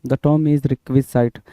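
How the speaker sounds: very slow, each word drawn out; slow dictation. Shown as a demonstration. Teacher dictating the term to the class, very slow. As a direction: lay the term down slowly for note-taking.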